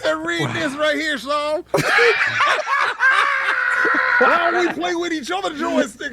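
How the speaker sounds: put-on hillbilly accent. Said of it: "Why I gotta have a hillbilly voice".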